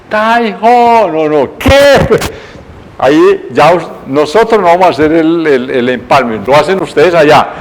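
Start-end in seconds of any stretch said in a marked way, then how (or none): 0.1-2.5 correcting the shout. Shown as a demonstration. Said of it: "yo qué grité".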